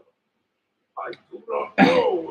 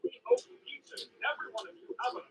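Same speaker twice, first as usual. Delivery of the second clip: cheery announcer; 4 dB louder, faster than usual. Acted. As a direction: greet the town like a narrator. Cheery town announcer intro.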